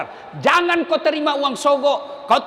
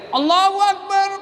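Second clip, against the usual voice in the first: shouted takbir; 6 semitones higher than usual. Retold or imitated. Muballagh shouting the takbir to the rows behind. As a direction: cry it out over the crowd. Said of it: "Ada yang teriak".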